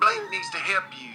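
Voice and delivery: super country voice. Retold or imitated. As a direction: imitate a nagging fan in country voice. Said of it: "like a super country voice".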